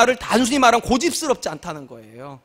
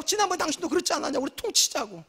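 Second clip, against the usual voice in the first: dismissive spouse; 6 semitones higher, 6 dB quieter than usual. Retold or imitated. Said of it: "부부관계에서도 그래요".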